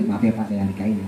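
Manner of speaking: low, soft, polite voice; hushed, respectful tone; gentle, discreet apology. Acted. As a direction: apologise quietly and tactfully. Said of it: "Pelan-pelan ngomongnya".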